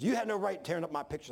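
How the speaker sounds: mildly heated complaint; retold angry accusation. Worker accuses superintendent over pictures, mild imitated anger. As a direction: imitate an aggrieved man accusing someone. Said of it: "acted like he wanted to fight".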